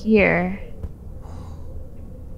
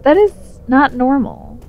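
mock scolding; 5 semitones higher, slower than usual. Real, not acted. Scolding the character's breathing.

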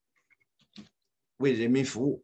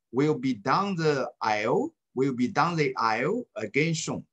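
model reading aloud; 3 semitones higher than usual. Shown as a demonstration. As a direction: read each line clearly as a model. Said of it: "我先读一遍，大家注意一下语音啊". (示范朗读，放慢清晰)

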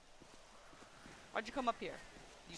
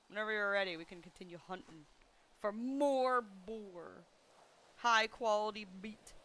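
odd put-on voice. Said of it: "I don't know why I'm talking like this".

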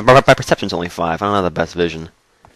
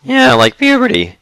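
mock high voice; 11 semitones higher than usual. Jokes to the teacher.

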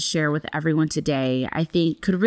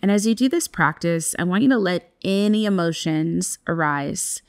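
guided meditation. Acted. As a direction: ease listeners into stillness. Leads a breathwork practice.

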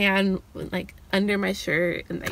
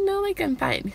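flustered; 10 semitones higher than usual. Retold or imitated. Nervous refusal.

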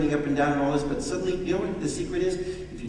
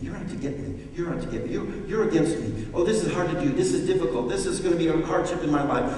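mock worried self-talk; faster than usual. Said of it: "I keep thinking".

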